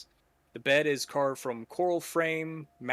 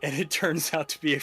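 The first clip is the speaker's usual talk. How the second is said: quick, louder reveal of the barrel; excited narration; 6 dB louder, faster than usual. Acted. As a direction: build it up, punchy.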